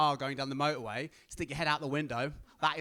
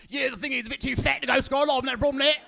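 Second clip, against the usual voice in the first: higher, louder singsong put-on voice; mock interviewee; 8 semitones higher, 7 dB louder than usual. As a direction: shrug it off on the news, sing-song. Imagined news interview with guy.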